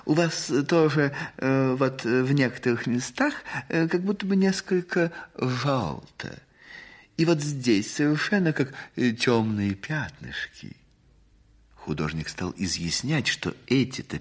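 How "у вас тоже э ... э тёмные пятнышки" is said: fussy society lady. Acted. Lady criticises the portrait.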